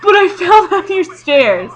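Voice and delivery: put-on asking her boyfriend to keep a secret, sheepish; sheepish confession. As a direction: confess with a guilty laugh. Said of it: "I was just like".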